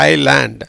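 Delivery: ஐலேண்ட் as "eye-land"; ஐலேண்ட், no s sound, falling at the end; correct pronunciation. Shown as a demonstration. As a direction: say ஐலேண்ட் with the S silent. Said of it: "எப்படி?".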